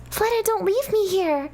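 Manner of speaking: high pleading cry; desperate plea. Acted. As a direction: beg her not to go. Girl left behind.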